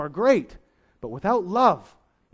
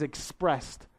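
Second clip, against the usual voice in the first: "expressed" set apart and leaned on; stress on expressed; 6 dB quieter than usual. Real, not acted. Preacher points congregation to how love shows, stressing "expressed". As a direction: lean firmly on the word "expressed". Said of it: "I emphasize that word expressed".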